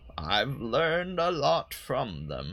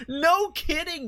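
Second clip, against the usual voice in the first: laughing; 5 dB louder than usual. Real, not acted. Laughs in voice mid-play.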